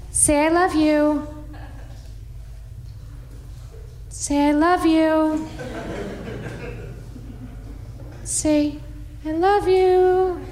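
high, slow coaxing say I love you; drawn out pleading to the dog; coaxing dog lady. Retold or imitated. Dog lady coaching her dog on radio, high slow coaxing. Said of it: "she was just like".

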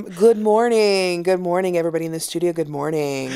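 newscaster voice. Shown as a demonstration. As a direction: greet the studio like a morning anchor. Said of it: "give me a newscaster impression".

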